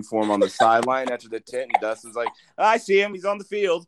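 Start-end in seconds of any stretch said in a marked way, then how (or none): 2.6-3.9 put-on high-pitched teasing take on a girly voice; mock girly voice. Host imitating Sarah spotting the player, in a high girly voice. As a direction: squeak it up like an excited girl. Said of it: "I have a pretty girly voice".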